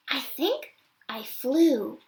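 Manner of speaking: put-on high, delighted little-kid voice; a tiny ape giggling after a thrill; little gorilla child. Rescued baby gorilla thanks the elephants, delighted. Kudzu's voice.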